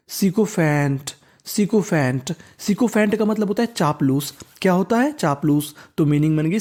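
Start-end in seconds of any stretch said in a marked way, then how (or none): 0.1-1.1 sikophant said slowly, syllable by syllable; slow teaching read. Shown as a demonstration. Teacher sounding out a word for students, slowly. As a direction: stretch सिकोफैंट out for the class.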